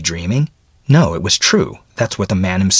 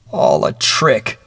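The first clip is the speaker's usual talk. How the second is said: slow, anguished groan; slow moan of lost hope; 4 dB louder, slower than usual. Acted. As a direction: drag it out in despair. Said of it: "he groaned".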